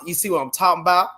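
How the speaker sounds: quick, run-together "talking about", like "talmbout"; friends' slang. Retold or imitated. Quoting Black friends from the States, slurred "talking about". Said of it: "my Black friends would always say".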